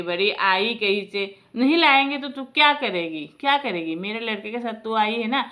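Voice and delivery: mildly heated imitated scolding; retold father-in-law's tirade; angry old man. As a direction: lay down a bitter threat to her. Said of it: "बूढ़ा को इतना गुस्सा आया".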